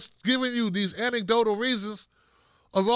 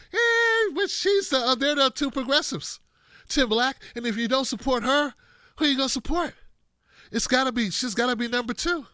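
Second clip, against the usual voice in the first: mock supporter voice; 3 semitones higher than usual. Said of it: "They were like".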